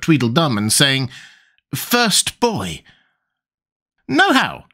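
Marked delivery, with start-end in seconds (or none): 1.7-2.8 Alice voice. Acted. 4.1-4.6 sharp, high brisk cry. Acted. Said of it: "Tweedledum cried out briskly".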